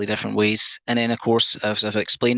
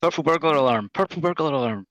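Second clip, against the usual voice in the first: said faster; 3 semitones higher than usual. Shown as a demonstration. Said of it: "Speed it up".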